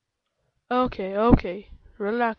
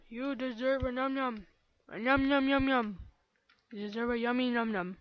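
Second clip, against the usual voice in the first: put-on cutesy baby talk; 5 dB quieter than usual. Coos reward at teammate.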